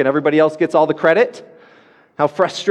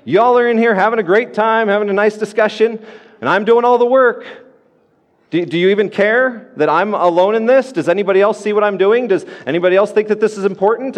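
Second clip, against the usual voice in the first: higher, exasperated griping at Jesus; frustrated complaint; 4 semitones higher than usual. Retold or imitated. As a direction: play Martha fed up, voice raised.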